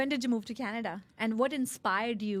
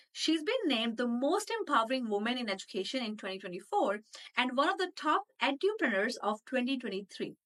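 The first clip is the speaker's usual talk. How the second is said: animated, emphatic show intro; podcast intro read; 3 semitones higher than usual. Acted. Host introducing her guest to the audience, upbeat announcer read. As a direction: introduce the guest with punched key words.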